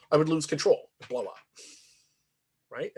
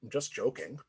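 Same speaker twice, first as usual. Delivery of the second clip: soft, taken-aback mumble; retold sheepish mumble, low energy; mumbling; 4 semitones lower, 9 dB quieter than usual. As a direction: mumble it as a weak excuse. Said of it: "he mumbles and he says".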